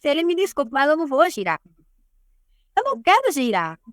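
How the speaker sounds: retold defiance, standing her ground; angry refusal. Woman refusing the prophet who orders her to spin, angry. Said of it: "Eu falava brava mesmo".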